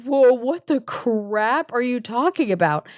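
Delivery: acted startled disbelief; mock alarm. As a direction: react with exaggerated bafflement. Alarmed guest's reply, acted.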